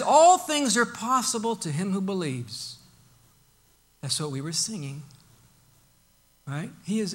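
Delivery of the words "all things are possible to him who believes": incredulous. Retold or imitated. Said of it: "with an incredulousness in his voice".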